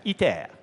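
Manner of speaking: "iter" as French ee-TAIR, falling at the end; French pronunciation. Shown as a demonstration. Speaker shows the audience the French name, "iter" in French pronunciation. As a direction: give "iter" its French vowels, ending like "air". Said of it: "pronounced in French".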